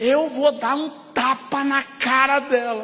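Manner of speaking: agitated, upset voice, high-pitched and slow. Retelling what the upset pastor's wife said, imitating an upset woman. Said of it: "a mulher do pastor tava nervosa".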